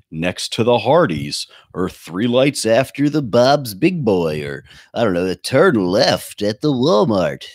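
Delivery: slow, spelled-out navigation voice; mock GPS voice. Google Maps talking down to old drivers, slow mock directions. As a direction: read the directions like a patient sat-nav. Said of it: "it'll say, like".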